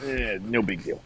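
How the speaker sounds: lightly mocking New York accent; casual New York tough-guy accent. Mocking a friend's Jersey roots, New York accent. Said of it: "that's like a New York accent".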